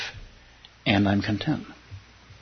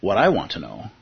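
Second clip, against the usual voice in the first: a lightly voiced storyteller read, slower at the end; teacher rereading a parable on request; story reading. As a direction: reread the parable calmly for the room.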